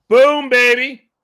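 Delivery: drawn-out loud boom of triumph; excited cheer. Real, not acted. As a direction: celebrate the pass out loud. Celebrating a student's pass.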